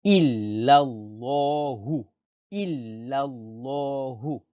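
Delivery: slow illallahu with a dark, rounded llah; careful full-mouthed pronunciation. Shown as a demonstration. Teacher modelling for pupils to repeat, careful illallahu. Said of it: "Donc on prononce bien".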